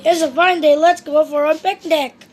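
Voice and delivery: brisk and cheerful. Acted. Brisk Mister Busy.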